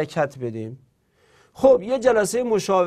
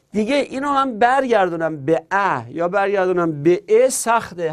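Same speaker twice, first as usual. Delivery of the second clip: voicing a student; 2 semitones higher than usual. Voicing an arguing student, faster.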